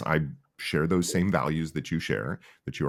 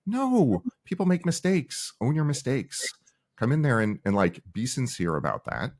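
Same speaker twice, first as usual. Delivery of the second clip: much higher, incredulous, then settling down; exasperated retort; 9 semitones higher than usual. Retold or imitated. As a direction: scold them in disbelief, then calm into advice. Exasperated retort to bad apologies.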